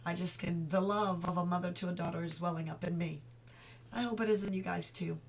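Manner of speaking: soft, moved voice about her late mother; emotional. Real, not acted. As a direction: speak softly, holding back tears. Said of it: "I'm getting emotional".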